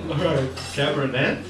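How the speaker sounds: "Cabernet" ending in a hard, sounded T; sounded final T. Retold or imitated. Restaurant worker offering wine, "Cabernet" with the T sounded. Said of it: "people actually pronounce the T's".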